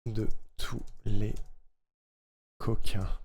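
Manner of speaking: slow, separated words with small gaps; syllable by syllable. Real, not acted. Streamer fitting words to a jingle, slow and separated. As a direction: spell out the line word by word.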